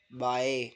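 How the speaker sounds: बाय blended as bye; बाय said as one smooth bye; word demo. Shown as a demonstration. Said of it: "बा, फिर आ की मात्रा ए".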